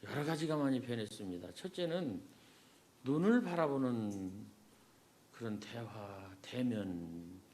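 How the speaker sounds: muffled through a mask; through a face mask. Real, not acted. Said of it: "그냥 마스크 쓰고 하겠습니다". (마스크 쓰고 말하는 소리)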